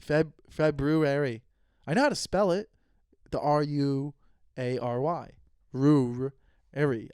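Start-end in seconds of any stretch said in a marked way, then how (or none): 0.1-1.4 February said slowly with a restart; careful pronunciation. Shown as a demonstration. Unsure of the word, slow careful February. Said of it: "How do you say".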